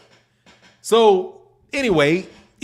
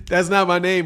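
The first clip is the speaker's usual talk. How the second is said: laughing. Real, not acted. Laughing at midget nickname.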